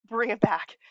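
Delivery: whispered self-reminder. Shown as a demonstration. Rambling vlogger hushes herself back on track, whispering. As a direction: breathe it to yourself after a sigh.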